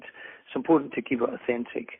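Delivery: ordinary talk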